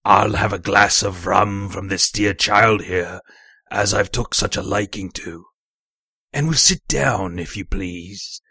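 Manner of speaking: put-on slow, oily old shipmate voice; Black Dog, wheedling.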